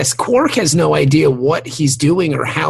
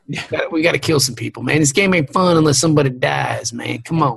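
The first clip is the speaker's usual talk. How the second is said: mock redneck, hurried at first; lightly voiced redneck; redneck guy; faster than usual. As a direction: whine like an impatient redneck player. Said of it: "the redneck guy".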